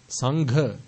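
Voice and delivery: "Sangha" with aspirated gh; correct "Sangha". Shown as a demonstration. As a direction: breathe through the gh of "Sangha". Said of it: "Sangha and Sangha are two".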